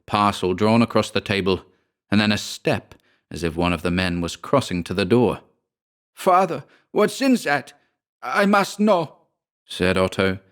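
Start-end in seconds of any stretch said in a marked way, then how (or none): 6.1-9.2 high-pitched, insistent son; determined. A narrator's reading. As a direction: demand to know, pitch raised throughout. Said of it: "first signs of determination in his voice".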